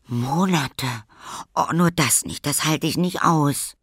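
put-on a child's mild wail of despair; dismayed girl. A narrator's reading. Lilly to the little lady, mildly wailing in dismay.

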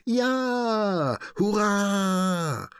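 put-on high happy squeal of kids; cheering. A narrator's reading. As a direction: whoop with delight. Animals cheer under water spray.

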